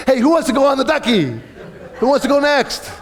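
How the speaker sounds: high, laughing fake-cheery call; laughing mock cheer. Pastor mocking Jeff's cheery ducky offer, high and laughing. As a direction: chirp it through laughter, faking fun. Mocking Jeff after terrifying rapids.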